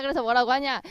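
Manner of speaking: ordinary talk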